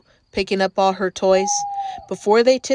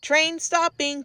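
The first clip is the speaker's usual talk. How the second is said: announcer call; 6 semitones higher, 3 dB quieter than usual. A narrator's reading. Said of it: "called Bluey".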